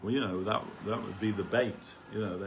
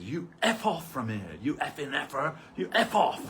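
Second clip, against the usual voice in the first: put-on abusive yell in an Indian accent, rising higher; 6 semitones higher than usual. Priest shoving me on the stairs, Indian accent curse. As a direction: spit it out in a mock Indian accent. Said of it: "He said it with an accent".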